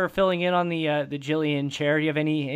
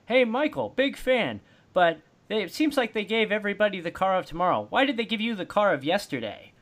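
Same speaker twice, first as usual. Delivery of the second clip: higher, bright pitchman read; commercial announcer voice; 4 semitones higher than usual. Retold or imitated. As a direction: read it like a cheesy TV ad. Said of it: "he was doing Napa commercials where he's like".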